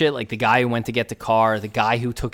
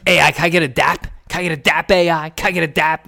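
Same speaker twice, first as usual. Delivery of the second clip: higher, louder begging for a dap; pleading drunk fan; 6 semitones higher, 5 dB louder than usual. Retold or imitated. Drunk fan begging Iverson for a fist bump, higher and louder. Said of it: "He's like".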